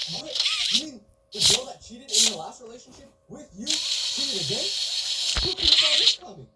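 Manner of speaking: over-the-top mock surprise; fake shocked. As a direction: pretend to be shocked, sarcastically. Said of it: "I have to pretend to be shocked".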